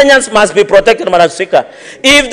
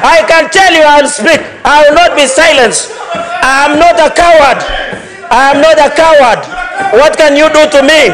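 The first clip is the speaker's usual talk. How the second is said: raised, defiant shout; 3 semitones higher than usual. Real, not acted. Senator shouting down the Speaker.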